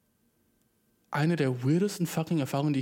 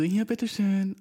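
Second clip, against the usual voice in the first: higher-pitched, fake service smile; aufgesetzt freundlich; 6 semitones higher, slower than usual. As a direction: imitate a cashier's put-on friendliness. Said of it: "fake fucking Lächeln". (gespielt freundlich mit falschem Lächeln)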